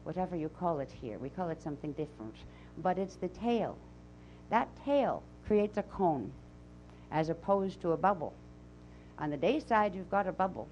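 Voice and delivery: put-on channeled voice with a Transylvanian accent; Azara's Transylvanian accent. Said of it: "I'll come back from my, uh, Transylvanian accent".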